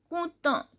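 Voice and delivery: compte said "koot-uh" as a model word; silent T demo. Shown as a demonstration. Teacher shows a French word's vowel sound, demonstrated pronunciation. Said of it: "T is silent and O U sound is oo".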